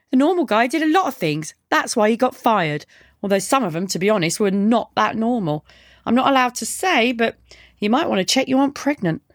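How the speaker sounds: deadpan backchat in a light female character voice; lightly played mouthy delivery girl; lightly voiced cheeky girl. Girl's dialogue in narrated story.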